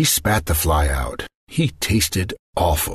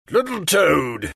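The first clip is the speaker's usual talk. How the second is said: higher, slow, drawn-out incantation; magician casting a spell; 9 semitones higher, slower than usual. Acted. Magician cursing the princess into a toad. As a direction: cast it with spite. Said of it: "he shouted".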